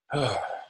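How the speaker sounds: audible breath let out in a sigh. Shown as a demonstration. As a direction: breathe out fully as an example. Demonstrates a deep breath.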